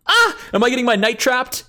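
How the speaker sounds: sudden high alarmed yelp; alarmed surprise. Real, not acted. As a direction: caught off guard, rising panic. Realizes knight is trapped.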